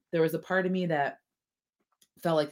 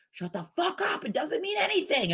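high mock gruff brush-off; husband dismissing; 12 semitones higher than usual. Lightly voiced husband brushing her off. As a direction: toss it off like an impatient husband. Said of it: "he goes".

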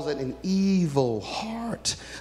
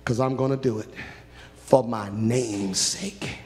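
voice of God; 3 semitones lower than usual. Acted. God answering Moses, low and settled. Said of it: "God looked at Moses and said".

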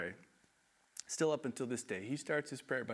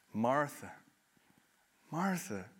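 gentle Jesus; slower than usual. Acted. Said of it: "kindness and love in Jesus' voice".

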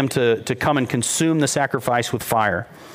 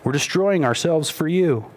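higher-pitched plea, no real shout; mild mock calling out; 4 semitones higher than usual. Baal's prophets plead with their god, half-called out. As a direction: call out in a raised pitch without real volume. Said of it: "They shouted loudly".

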